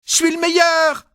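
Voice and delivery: high, slow, loud victory cry; triumphant shout. Acted. Nicolas bursts into the house shouting his triumph, high and slow. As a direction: shout it proudly through the door. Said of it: "j'ai crié".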